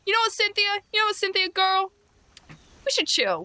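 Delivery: high, sugary friendly tone; high sweet voice. Acted. Fake friendly to Cynthia.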